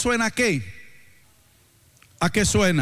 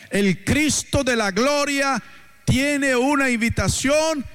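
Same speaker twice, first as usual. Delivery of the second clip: preaching; 2 semitones higher than usual. Real, not acted. Preacher relaying Jesus' invitation to cross over, fervent preaching. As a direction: drive each repeated phrase home to the congregation.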